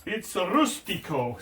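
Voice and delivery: "rustico" slow and savoured, Spanish-style; rustico again. Shown as a demonstration. Cook repeating the foreign word, slow and relishing. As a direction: linger over "rustico". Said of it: "as they say in Spain".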